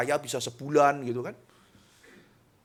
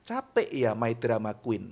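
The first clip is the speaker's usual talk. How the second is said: soft sarcasm; 4 semitones lower than usual. Acted. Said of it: "itu kan halus kan".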